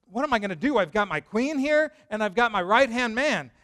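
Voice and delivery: thinking aloud in a frantic rush; panicked king. Retold or imitated. King in the garden torn between queen and adviser, panicked.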